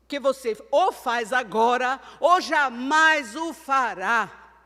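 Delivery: slow, loud and deliberate; emphatic maxim. Real, not acted. Preacher driving home her maxim, slow and emphatic. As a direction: lay down each word as a maxim. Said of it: "gravem essa máxima de Célia".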